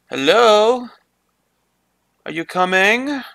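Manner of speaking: high-pitched calling out in a mock Asian accent; playful mock Asian-accented call. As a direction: call out with a put-on Asian accent, rising at the end. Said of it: "I sound Asian now".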